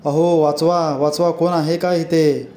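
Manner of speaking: understated call for help, a little slow; cry for help. Acted. Shepherd alone in the field calls for help, mild shout. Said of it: "तो ओरडू लागतो".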